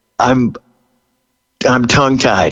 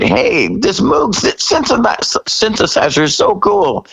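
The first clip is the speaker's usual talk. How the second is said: excited discovery; 11 semitones higher than usual. Retold or imitated. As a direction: gush about the new synth. Bandmate discovering synth, quoted.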